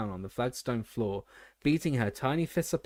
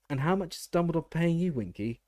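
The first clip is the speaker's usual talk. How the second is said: kind; 7 semitones higher than usual. A narrator's reading. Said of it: "Hermione asked kindly".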